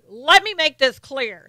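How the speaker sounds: slow, drawn-out Southern politician; mock Southern drawl; put-on Southern accent. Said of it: "get on a Southern accent".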